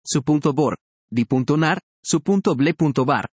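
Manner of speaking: su punto bor, di punto nar, su punto ble punto bar with the b moved onto the next syllable. Shown as a demonstration. Teacher showing students the phonic split. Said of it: "que no se respete".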